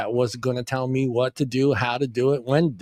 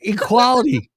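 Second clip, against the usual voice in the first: shouted; 9 semitones higher, 4 dB louder than usual. Pretend.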